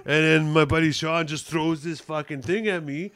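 lightly acted exasperated griper; Roger impersonation. Roger moaning about his buddy Sean, lightly put-on gripe. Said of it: "Beeching to his friend about the night".

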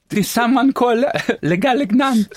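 put-on slow, high French accent with "le"; mock French accent. Host playing a French character, mock French accent. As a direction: ham up a French waiter. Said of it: "Should be French".

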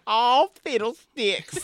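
high, slow hick drawl; dumb redneck. Retold or imitated. S0 quoting the redneck from the show, slow hick voice. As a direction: ham up a big dumb redneck. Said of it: "and just going".

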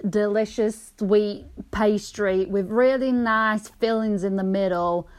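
put-on American accent. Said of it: "I might have this accent".

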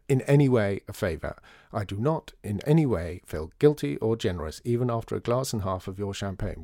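lightly voiced sharp-tongued columnist; sharp journalist. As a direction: Maddie scoffing at children, lightly voiced. Maddie insists in taxi.

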